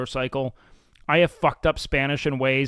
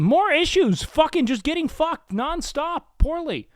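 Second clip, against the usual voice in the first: exaggerated squeal; 12 semitones higher than usual. Exaggerated voice continues.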